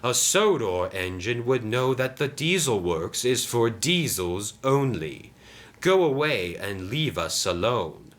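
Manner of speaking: lightly voiced stern engine; unfriendly Diesel. Diesel sends Sam away, dismissive. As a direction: warn off an outsider, dragging the key words.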